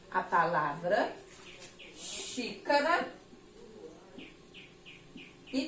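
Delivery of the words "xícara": "xícara" stretched out slowly, higher in pitch; slow enunciation. Shown as a demonstration. Teacher showing pupils the word xícara, slow and careful.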